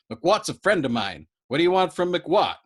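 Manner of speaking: loud, rising indignant voice; horrified protest. Acted. Yossarian objects to Dobbs, horrified. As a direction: defend his friend hotly. In horror.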